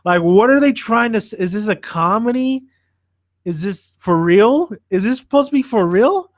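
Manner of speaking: retold disbelief. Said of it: "that's exactly what I said".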